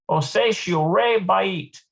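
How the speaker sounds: slow deliberate imitation of the Hebrew phrase; slow careful repeat. Shown as a demonstration. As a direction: learner repeating "Osei shiure bait" slowly syllable by syllable. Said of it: "repeating after the recording".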